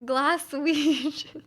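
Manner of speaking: high and loud, stretching out Glaswegian in disbelief; half-laughing mock bafflement at the word; baffled quote. Retelling her own reaction to Glaswegian, incredulous. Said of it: "but I was like".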